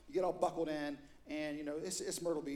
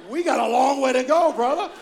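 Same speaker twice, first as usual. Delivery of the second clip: 1 teasing laugh; 8 semitones higher, 19 dB louder than usual. Retold or imitated. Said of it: "And I'm like".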